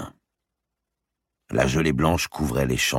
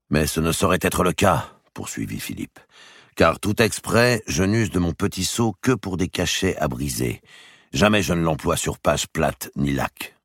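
a bit higher, pleading to be believed; earnest king; 4 semitones higher than usual. Acted. The king begging his brother to believe him, earnest. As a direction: insist you knew nothing.

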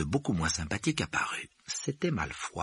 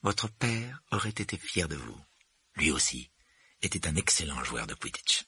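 smiling, gentle; 2 semitones lower than usual. Acted. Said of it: "Puis elle eut soudain un sourire".

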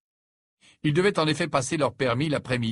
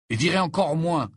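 firm, loud, higher-pitched assertion; resolute; 8 semitones higher, 5 dB louder than usual. A narrator's reading. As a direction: state it with total resolve. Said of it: "d'un ton résolu". (ton résolu, haut et fort)

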